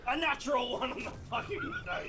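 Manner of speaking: laughing in disbelief. Real, not acted. Laughing at bad roll.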